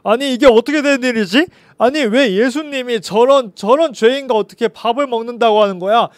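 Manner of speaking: as if you can't believe what you just heard; baffled outrage. Acted. Crowd questioning why Jesus picks a sinner, loud and indignant. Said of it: "너무나도 황당해하고 어이없어했어요".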